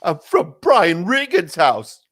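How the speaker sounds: a hint of Brian Regan's puzzled delivery; mock Brian Regan. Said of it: "very Brian Regan-y".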